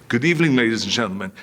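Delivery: fast, hurried "Good evening, ladies and gentlemen" run together; rushed repeat. Retold or imitated. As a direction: blurt the cue out quickly. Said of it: "And I said".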